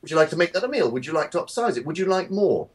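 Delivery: chirpy cashier upsell. Retold or imitated. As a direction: rattle off upsell questions brightly. McDonald's upsell questions voiced.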